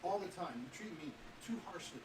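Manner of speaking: lightly voiced indignant sister. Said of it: "a higher voice that says".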